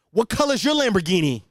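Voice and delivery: loud taunting alpha-male jab; Andrew Tate impression. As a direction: sneer it like a podcast bro. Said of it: "that's just my Andrew Tate impression".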